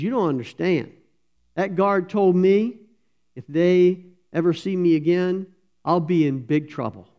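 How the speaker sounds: put-on little boy's anxious protest; frightened boy. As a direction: plead in fear of the guard. Boy fears the guard.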